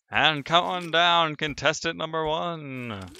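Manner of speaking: game show host. Pretend. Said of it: "I sound like a game show host now".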